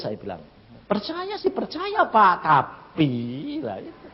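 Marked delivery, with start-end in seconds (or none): 0.9-3.6 imitated reluctant yes, trailing into a long "tapi"; hesitant reply. Worried mother to preacher, hesitantly half-agreeing.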